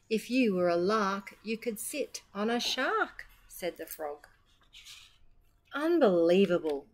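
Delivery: animated picture-book read with voiced animals; reading to children. Children's storyteller reading aloud in a shop, animated. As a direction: bounce the rhymes for little ears.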